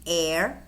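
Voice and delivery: "heir" begun on the vowel; silent H. Shown as a demonstration. Teacher repeating for learners, "heir" with silent H. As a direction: drop the H in "heir". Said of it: "in which the H is silent".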